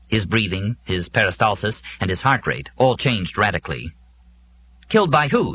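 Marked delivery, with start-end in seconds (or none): 4.9-5.5 sharp, louder demand; a touch of an alarmed, demanding man. A narrator's reading. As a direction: insist on an answer, frightened and angry. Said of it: "he demanded".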